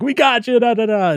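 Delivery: high, loud mock gloating; triumphant cry. Acted capture of clown.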